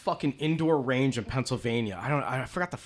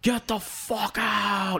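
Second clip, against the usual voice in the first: gruff order; 7 semitones higher, much slower than usual. Retold or imitated. Range officer throwing him out.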